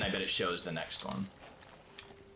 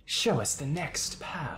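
higher, slow solemn command; mock grand command; 7 semitones higher, much slower than usual. Ordering the puzzle to reveal the path, slow mock-solemn command. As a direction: intone it like summoning an oracle.

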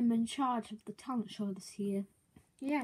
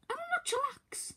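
high, tense whispered retort; fuming whisper; 12 semitones higher, slower than usual. Acted. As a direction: hiss back through the teeth. Fuming reply.

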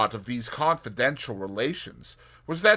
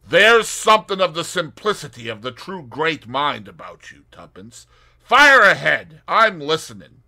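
Tommy voice; 6 semitones higher, 12 dB louder than usual. Acted. Tommy teasing Tuppence.

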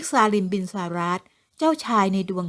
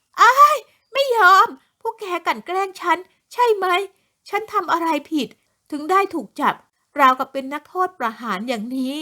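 much higher, louder indignant cry; shrill protest; 7 semitones higher, 4 dB louder than usual. Acted. Young woman protesting her arrest to police, high indignant cry. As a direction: fight back as they drag you off.

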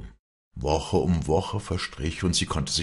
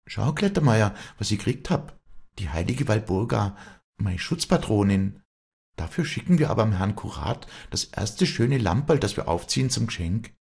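higher, eager dialect voice; excited calling out; 6 semitones higher than usual. A narrator's reading. Walli showing Klettermeier her new figure, calling out eagerly. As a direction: show off a treasure, pitched up. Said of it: "hielt sie ihm das Figürchen entgegen und rief".

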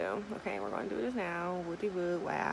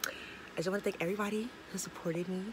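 whispered thanks; faster than usual. Real, not acted. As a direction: breathe out your gratitude in a whisper. Heartfelt thanks to supporters.

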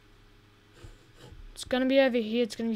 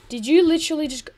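incredulous; 3 semitones higher, 9 dB louder, much faster than usual. Real, not acted. Annoyed at game companion.

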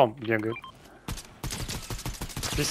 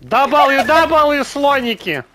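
high, loud put-on squeak; squeaky silly voice; 12 semitones higher, 8 dB louder, much slower than usual. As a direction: squeal it out to tease. Teasing a friend's broken key.

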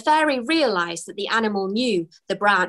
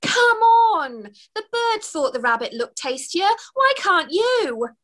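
desperate wail; 9 semitones higher than usual. Acted. Fairy Twigs in the river wails at the stoat. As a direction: wail in frantic disbelief.

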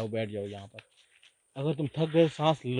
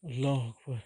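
startled cry; 14 dB louder than usual. Real, not acted. Explorer startled in the dark forest, crying out. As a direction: blurt it out in fright, very loud.

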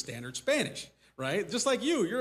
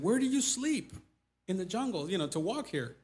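higher-pitched, mildly incredulous retelling; retold amazed question; 4 semitones higher than usual. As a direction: ask it in mock astonishment, pitch jumping up. Retells his baffled question to villagers.

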